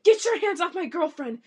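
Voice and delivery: loud, high heroic rescue line; Riverdale quote. Retold or imitated. Vampire prince bursting in to rescue his girlfriend, loud and high. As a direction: burst in and claim her. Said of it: "that's a Riverdale quote".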